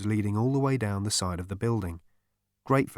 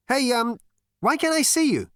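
very high, hesitant, agitated; baffled question; 5 dB louder than usual. A narrator's reading. Zaphod questioning the invisible voice, rattled. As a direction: ask in rattled disbelief.

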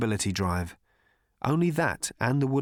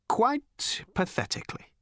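"Quite pathetically." much higher, voiced and rising in despair; pitched-up lament; 11 semitones higher than usual. Slartibartfast lamenting failure, high plaintive "Quite pathetically.".

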